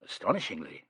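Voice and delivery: low, quiet dry aside; softly murmured, dry. A narrator's reading. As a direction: murmur it under the breath. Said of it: "murmured Alleyne".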